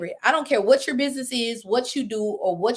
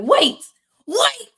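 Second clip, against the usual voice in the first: rising, higher disbelieving double take; excited realization; 9 semitones higher, 5 dB louder than usual. Retold or imitated. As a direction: catch on all at once, getting excited. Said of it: "and I'm excited".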